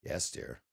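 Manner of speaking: low, soft "Yes, dear"; low inflection. Shown as a demonstration. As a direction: demonstrate a subdued "Yes, dear", pitched well down. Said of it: "different inflections in the tone".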